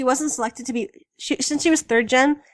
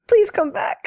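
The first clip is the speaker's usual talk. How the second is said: high, whimpering fake sob; squeaky tearful whine breaking into laughter; mock-tearful plea; 10 semitones higher, 4 dB louder, slower than usual. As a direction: beg through pretend tears. Mock-crying plea to departed idol.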